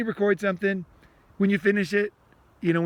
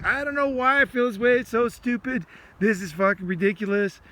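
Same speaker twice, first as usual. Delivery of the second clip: frustrated venting; 3 semitones higher than usual. Shown as a demonstration. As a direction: vent at yourself about a feeling you can't shake. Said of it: "you can talk like that".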